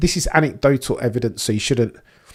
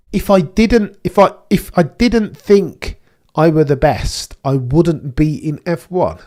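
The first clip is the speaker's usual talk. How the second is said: slow, louder mock of a driver's double negative; mocking Lando; 2 semitones higher, 5 dB louder than usual. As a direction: parody him slowly and a bit louder, a touch whiny. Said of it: "Who talks like that?".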